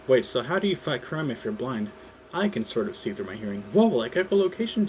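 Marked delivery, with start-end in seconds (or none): 3.7-4.9 amazed. Acted. Peter amazed.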